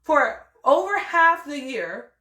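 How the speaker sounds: rising outrage, peaking loud; indignant. Retold or imitated. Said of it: "I was like".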